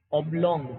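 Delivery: ઓબ્લોંગ said with a short open o, "obblong"; short o in oblong. Shown as a demonstration. Teacher demonstrating to trainees, short vowel in ઓબ્લોંગ. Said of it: "એ ટૂંકો ઓ એવો થાય છે".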